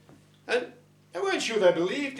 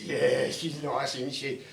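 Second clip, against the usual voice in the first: 1 low leprechaun voice; 5 semitones lower than usual. Acted.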